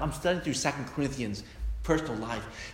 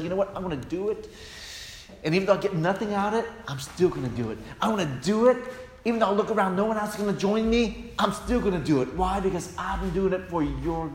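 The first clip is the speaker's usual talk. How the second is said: determined love; 6 semitones higher, 4 dB louder, faster than usual. Acted. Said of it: "But authentic love says".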